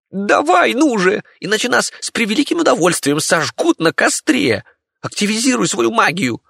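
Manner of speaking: very high frantic squeak; panicked rat. Acted. Rat urging Martin, a very high panicked squeal.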